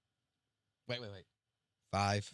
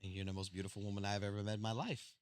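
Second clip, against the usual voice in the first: sweet-talking; 10 semitones lower, 17 dB quieter than usual. Real, not acted. Sweet-talking wife after her scolding.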